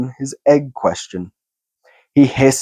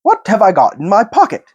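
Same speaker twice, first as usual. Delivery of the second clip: said louder; 8 semitones higher than usual. A narrator's reading. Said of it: "he said louder".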